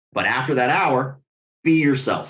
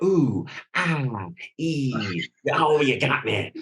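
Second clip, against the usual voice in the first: hammed-up fake pain; slower than usual. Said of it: "Oscar level act".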